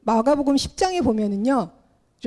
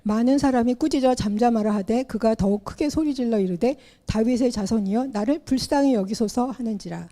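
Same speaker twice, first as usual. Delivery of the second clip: measured, solemn Bible reading; scripture reading; 3 semitones lower than usual. Acted. Pastor reading Mark ten to the congregation, solemn reading. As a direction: read the passage out like a pastor at the pulpit. Reads scripture passage aloud.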